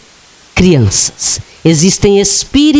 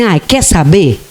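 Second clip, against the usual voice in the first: stressed-out death; 3 semitones lower than usual. Acted. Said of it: "E aí ela se estressou, falou assim".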